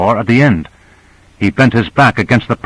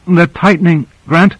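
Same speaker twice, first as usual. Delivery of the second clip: strained with effort; 6 semitones higher than usual. A narrator's reading. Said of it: "the effort it took her to speak".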